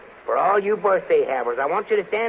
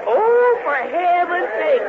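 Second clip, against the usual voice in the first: high squealing exclamation; mock astonishment; 10 semitones higher, 4 dB louder, slower than usual. Host greeting the parade of animals, hammed-up astonishment. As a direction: gasp it out in big pretend shock.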